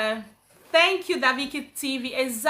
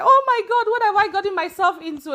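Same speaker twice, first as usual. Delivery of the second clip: mock panic; 6 semitones higher, 3 dB louder than usual. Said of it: "I was like".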